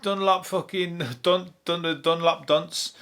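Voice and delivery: mock playground teasing over cheap trainers; mocking taunt. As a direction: taunt him like a kid in the playground. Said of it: "people would be like".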